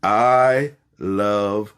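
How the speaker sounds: stretched slowly for the crowd; slow affirmation. Shown as a demonstration. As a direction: give it slowly, one word at a time. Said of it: "I want you to say that".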